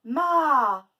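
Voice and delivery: MA very loud with a long a; stretched syllable. Shown as a demonstration. Teacher showing A returns, stretched syllable. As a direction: stretch Ma into maaa. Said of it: "Où est-ce qu'on entend A?".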